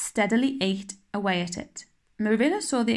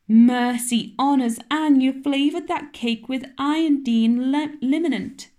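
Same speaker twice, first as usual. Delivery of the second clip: aghast; 5 semitones higher, 5 dB louder than usual. Acted. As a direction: gasp at the mistake. Marilla discovering the liniment.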